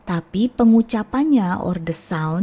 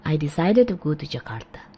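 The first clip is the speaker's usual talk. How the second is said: quicker run-through; fast. Shown as a demonstration. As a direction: say "decided" quickly with a short "it" ending. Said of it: "Atau kalau cepat".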